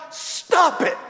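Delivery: high, curt "Stop it" from the sketch therapist; deadpan comic command; blunt psychiatrist. Retold or imitated. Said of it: "And she goes".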